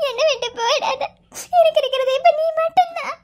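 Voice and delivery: pleading through sobs; weeping plea to her friend; crying. Acted. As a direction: beg him tearfully to stay. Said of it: "அழுகாத".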